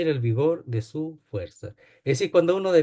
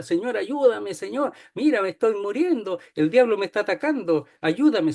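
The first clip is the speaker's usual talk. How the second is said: higher, lightly mocking plea to God; mock pleading prayer; 5 semitones higher than usual. Believers praying in panic, lightly mocked and higher. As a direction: imitate a panicked prayer, a bit hammed-up. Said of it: "se ponen a orar".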